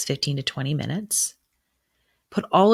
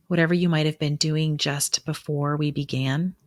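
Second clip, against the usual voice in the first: measured meditation voice with long pauses; guided meditation. Acted. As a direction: ease the listener into breathing, unhurried. Guides breathing in a ritual.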